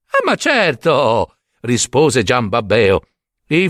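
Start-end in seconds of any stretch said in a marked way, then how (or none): 0.1-1.4 slow, drawn-out, higher assent; blithe, unbothered reply; cheerful certainty. Acted. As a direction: agree with naive confidence. Simpleton answers with confidence.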